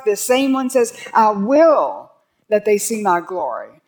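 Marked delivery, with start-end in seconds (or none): 1.1-3.8 "I will" said firm and louder; a commanding "I will"; emphatic. Shown as a demonstration. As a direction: press "I will" as a demand. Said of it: "That's emphatic".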